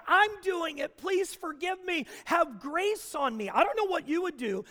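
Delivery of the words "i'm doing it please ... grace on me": high, pleading penitent; mock pleading. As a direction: beg forgiveness, hammed up. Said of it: "He doesn't say".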